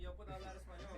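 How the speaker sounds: Spanish spoken with an English accent. Real, not acted. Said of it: "you saying that in an English accent".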